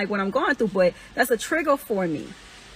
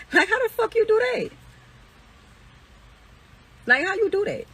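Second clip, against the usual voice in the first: incredulous; 9 semitones higher than usual. Real, not acted. Incredulous at hypocrisy.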